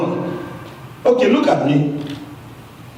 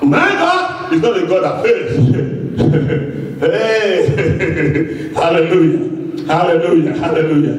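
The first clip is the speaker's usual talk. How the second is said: excited; 3 semitones lower, slower than usual. Real, not acted. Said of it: "I'm getting a bit excited".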